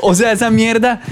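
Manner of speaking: giggling as he recalls the scare; laughing while talking. Real, not acted. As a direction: laugh through the story of the plane going back up. Laughing while telling plane scare.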